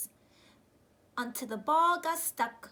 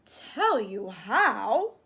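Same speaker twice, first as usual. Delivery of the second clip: slow, whispery teasing dad; lightly voiced father teasing; dad's voice; 4 semitones lower, 8 dB louder, much slower than usual. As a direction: draw it out like a sly dad. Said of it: "his dad said".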